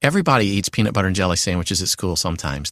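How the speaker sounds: lightly voiced mom, close to own voice; a hint of a reassuring mother. Shown as a demonstration. Voice actor demonstrating a slight variation of own voice, lightly voiced mother. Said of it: "this is your voice to play a mother".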